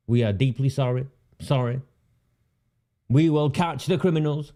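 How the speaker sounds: lightly mimicked emotionless script reading; a hint of a robot reciting an apology; mild robotic. Mocking a police officer reading a script, mildly emotionless. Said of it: "No emotion in his voice whatsoever".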